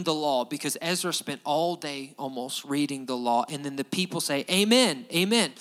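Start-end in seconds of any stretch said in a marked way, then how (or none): 4.5-5.5 emphatic amen. Retold or imitated. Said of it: "And they're emphatic about it".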